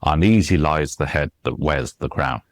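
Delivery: "Uneasy lies the head" in weak-STRONG beats; measured verse line, "Uneasy" stressed on its second syllable; iambic rhythm. Shown as a demonstration. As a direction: beat out five stresses: unEAsy LIES the HEAD that WEARS the CROWN. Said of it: "it's that rhythm".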